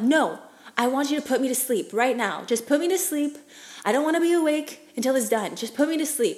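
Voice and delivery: urgent, frightened demand to the doctor; panicked pleading. Retold or imitated. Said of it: "because I'm flipping out".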